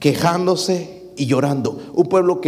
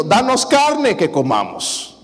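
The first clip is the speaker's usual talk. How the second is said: a slow, higher mock plea; begging for meat; 6 semitones higher, slower than usual. Moses quoting the people's demand for meat, slow whiny plea. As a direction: draw it out like a whining child.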